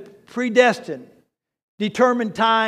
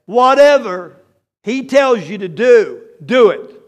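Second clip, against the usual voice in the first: loud, emphatic order from Mary; firm command; 7 dB louder than usual. Acted. Mary orders the servants at the wedding, loud and firm. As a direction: tell the servants firmly, louder. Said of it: "And the mother said, Mary said".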